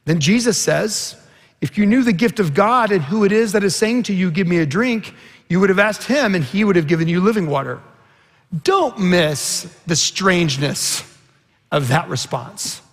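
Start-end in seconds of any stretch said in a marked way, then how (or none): 1.6-7.8 louder, brisk, emphatic reading of Jesus' words; bold, quick proclamation. Acted. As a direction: proclaim it fast and strong to the crowd. First reading of Jesus' reply.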